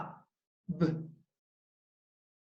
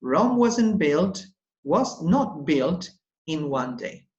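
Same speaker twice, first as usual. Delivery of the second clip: slow proverb; slower than usual. Shown as a demonstration. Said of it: "And remember".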